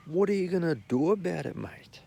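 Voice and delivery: whispered defiant challenge; whispered comeback. Retold or imitated. Muttering back at the festival guy, whispered challenge.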